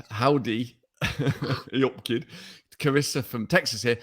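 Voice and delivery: put-on local Uttoxeter accent for the greeting. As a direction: read it in an everyday Uttoxeter accent. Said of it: "in your stupid Uttoxeter accent".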